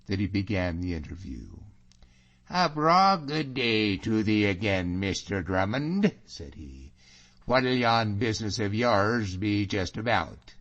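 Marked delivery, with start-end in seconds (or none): 2.5-6.1 lightly mocking, jaunty Scots hail; mocking greeting. Allan opens the interview with James, lightly mocking. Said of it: "old spirit of mockery and daffing". 7.5-10.5 lightly mocking Scots inquiry; mocking question. Allan questions James about his business, lightly mocking. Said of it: "old spirit of mockery and daffing".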